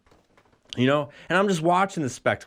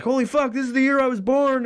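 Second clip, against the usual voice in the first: mock surprise; 11 semitones higher, 3 dB louder than usual. Shocked realisation in story.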